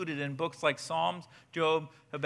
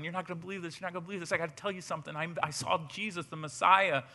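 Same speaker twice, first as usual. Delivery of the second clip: excited secret; 5 dB quieter, much faster than usual. Retold or imitated. Philip running to tell friend.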